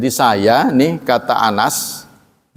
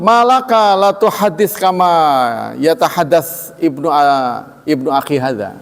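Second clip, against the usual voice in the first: Aisyah rebuking; 4 semitones higher than usual. Retold or imitated. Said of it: "Aisyah menegur".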